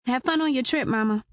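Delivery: daughter voice. Acted. Daughter says goodbye.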